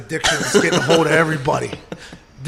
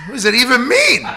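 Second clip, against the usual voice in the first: incredulous shout; 5 semitones higher, 4 dB louder than usual. Retold or imitated. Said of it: "I was like".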